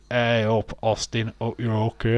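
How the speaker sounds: put-on a light northern accent, greeting a mate. Greeting a viewer on stream in a light northern accent. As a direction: say it like a bloke from the north of England, only lightly. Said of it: "have to do that in a northern accent".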